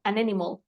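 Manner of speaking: "an animal" run together through the n; todo junto. Shown as a demonstration. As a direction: link "an animal" like one word. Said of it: "Aquí ya escuchaste que sonó". ("an animal" enlazado, como una palabra)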